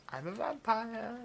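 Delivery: slow, lifted vampire reveal; dramatic reveal. Acted. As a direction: let the secret land slowly. Vampire revealing herself to listener.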